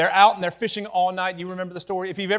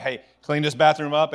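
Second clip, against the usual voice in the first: louder, with a little teeth on it; a little firmer; 5 dB louder than usual. Shown as a demonstration. Parent repeating the bathroom order to kids, firmer and louder. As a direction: raise the tone a notch. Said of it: "you raise your tone just a little".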